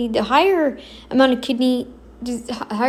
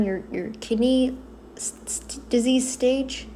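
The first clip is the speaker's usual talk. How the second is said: whisper; 6 dB quieter than usual. Real, not acted. Muttered aside.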